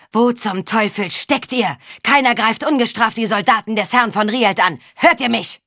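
angry shout rising to loud; furious bellow. Acted. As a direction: roar it from the battlements. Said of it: "brüllte".

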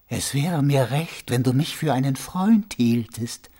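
measured, unhurried unseen stranger; mysterious friendly voice. Acted. Unseen stranger addresses waking prisoner. (geheimnisvolle, bedächtige Stimme)

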